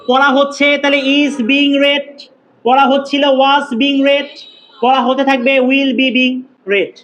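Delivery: each tense form spelled out slowly for the class; slow it right down so students can copy; slow dictation. Shown as a demonstration. Teacher dictating tense forms.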